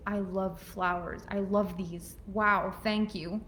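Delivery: quiet, sincere gratitude for flowers; sincere thanks. Shown as a demonstration. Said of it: "he buys you flowers and you say".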